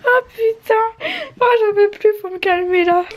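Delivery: haut, fort et lent au début; déborde d'excitation, à bout; surexcitée. Real, not acted. Faut me calmer là. (excitation débordante, très aiguë)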